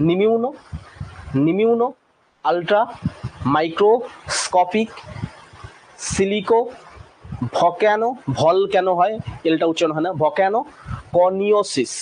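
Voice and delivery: নিমিউনো, ultra, microscopic, silico, volcano, coniosis each said alone with pauses; syllable by syllable. Shown as a demonstration. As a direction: break the word into parts for the class to repeat. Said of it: "উচ্চারণ করতে থাকো আমার সাথে".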